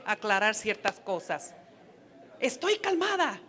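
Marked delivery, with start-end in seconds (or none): 2.4-3.4 a wife snapping back at her husband, mildly hammed; irritated wife. Wife acting out an argument with her husband, mock irritated. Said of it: "ya empezó el fuego otra vez".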